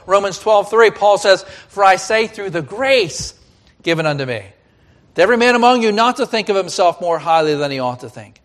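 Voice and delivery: loud, emphatic scripture reading from the pulpit; forceful preaching. Real, not acted. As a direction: proclaim the verse to the congregation.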